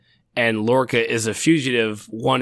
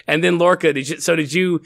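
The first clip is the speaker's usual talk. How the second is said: ordinary talk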